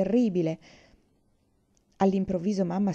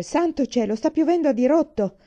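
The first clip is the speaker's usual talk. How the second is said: loud, raised shout over the storm; 7 semitones higher, 5 dB louder than usual. A narrator's reading. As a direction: call out over the noise of the rain. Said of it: "Sentì papà urlare".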